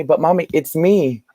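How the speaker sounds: put-on high little kid voice calling for mommy; little child. Small son pleading with the woman at the door, high kid voice.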